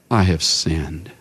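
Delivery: low, slow admission of sin; low confession. Acted. Preacher voicing Saul confessing, low and slow. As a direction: say it like a broken king.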